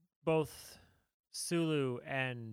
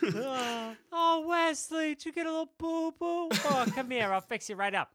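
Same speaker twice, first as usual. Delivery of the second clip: doting doctor voice; 11 semitones higher, 4 dB louder than usual. Acted. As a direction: coo like a fussing doctor. Doctor coddling Wesley, high voice.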